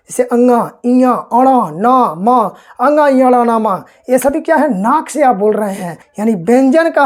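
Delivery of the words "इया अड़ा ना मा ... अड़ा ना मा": इया, अड़ा, ना, मा each voiced through the nose, one by one; nasal sounds demo. Shown as a demonstration. Teacher showing students sounds spoken through the nose, nasal demo. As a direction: let इया, अड़ा, ना, मा hum through the nose as you say them. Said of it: "नाक से थोड़ा बहुत आवाज़ आएगा".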